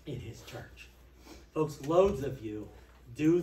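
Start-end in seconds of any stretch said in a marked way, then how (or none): 0.1-0.9 softer whispered echo of In his church; whispered repeat. Shown as a demonstration. To the congregation, hushed echo for the notes.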